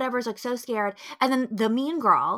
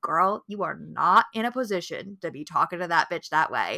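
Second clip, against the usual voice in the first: sassy aside; 4 semitones lower than usual. Retold or imitated. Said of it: "you're like".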